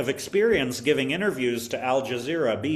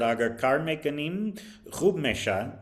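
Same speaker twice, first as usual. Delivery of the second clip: gentle encouragement; 2 semitones higher than usual. Retold or imitated. Teacher encouraging a discouraged student, gently. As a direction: lightly imitate gently reassuring a pupil. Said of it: "I told her very gently".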